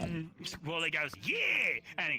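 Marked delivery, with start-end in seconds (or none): 1.2-1.8 high, loud whoop; war cry. Retold or imitated. Viking yells as he runs at the orc, high war cry. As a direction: launch yourself with a yell. Viking answers, leaping into throw.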